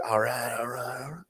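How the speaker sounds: very quiet, weak attempt at a laid-back actor's catchphrase; Matthew McConaughey. Host trying an impression on request, weak quiet attempt. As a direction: murmur it as a weak celebrity impression. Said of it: "can you do a Matthew McConaughey accent".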